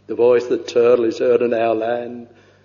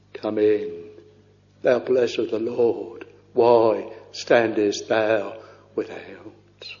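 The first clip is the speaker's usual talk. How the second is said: hushed welcome ending in a whisper; 2 semitones lower, 3 dB quieter than usual. Acted. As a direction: welcome him gently, almost whispering. Laban's welcome voiced hushed.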